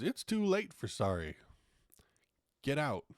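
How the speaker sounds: high mock yell ending in a hiss; imitated screaming. Owner throwing the customer out, high mock yell. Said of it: "to screaming".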